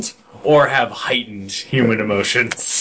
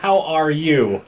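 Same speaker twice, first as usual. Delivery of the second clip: robot voice; 5 semitones higher than usual. Pretend. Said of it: "talking like a robot".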